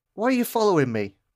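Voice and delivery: high shout, calling out. A stranger stops and shouts down the street at a costumed pursuer. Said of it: "stops and shouts down the street".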